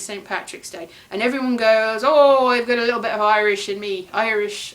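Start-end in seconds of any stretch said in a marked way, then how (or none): 2.0-4.7 put-on half-hearted go at an Irish accent; attempted Irish accent. Everyone claiming roots on Saint Patrick's Day, failed Irish accent. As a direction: try an Irish accent and not quite manage it. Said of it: "I can't do the Irish accent".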